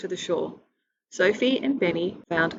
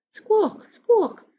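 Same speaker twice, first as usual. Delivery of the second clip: very high, louder shrill gull cry; loud seagull squawk; 14 semitones higher, 6 dB louder than usual. Acted. The tricky seagull squawks at Benny, loud high cry. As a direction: shriek it like a triumphant gull.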